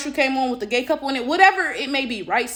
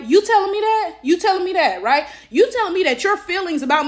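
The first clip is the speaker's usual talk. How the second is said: raised, louder disbelief; incredulous; 5 semitones higher, 3 dB louder than usual. Real, not acted. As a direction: push back in disbelief. Repeated indignant challenge.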